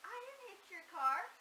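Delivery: imitating a sweet dad, pitched high; sweet, earnest protest. Daughter retells her dad's denial to the prankster, sweetly earnest. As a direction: gently plead innocence, high and loud. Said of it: "he was just so sweet about it".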